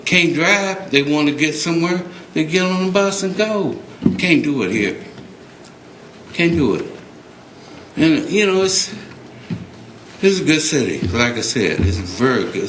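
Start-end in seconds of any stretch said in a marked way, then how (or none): 0.1-11.1 getting emotional. Real, not acted. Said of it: "I'm getting emotional now".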